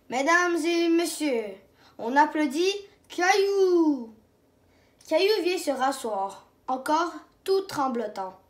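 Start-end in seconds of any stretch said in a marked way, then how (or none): 0.1-4.1 slow, grand stage announcement; announcer. Acted. Shepherd presents Caillou to the audience, grand announcement. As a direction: present him to the crowd, slowly.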